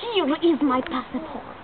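slow, deliberate mock Russian; slow Russian accent. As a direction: hand it over in a put-on Russian accent. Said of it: "Russian accent".

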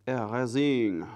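drawn-out mock French accent. Shown as a demonstration. Artist showing off a French accent while erasing, French-accented. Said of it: "That was my French accent".

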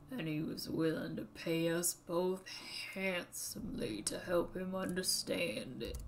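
put-on old Southern man voice; southern accent. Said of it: "when I do a southern accent".

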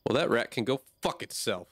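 mildly aggressive swear at the rat; half-joking hostile jab. Real, not acted. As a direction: snap it a bit too harshly. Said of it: "that was too aggressive".

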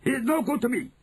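high witch voice crying out. Acted. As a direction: cry it out like a witch. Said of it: "the Grand High Witch cried out".

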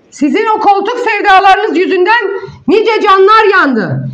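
real anger at a rival; angry. Real, not acted. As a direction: scold her face to face, furious. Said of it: "ben sana çok sinirliyim".

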